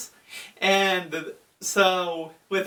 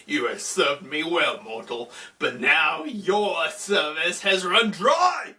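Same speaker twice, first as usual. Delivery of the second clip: Anubis. Retold or imitated. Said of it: "He's like".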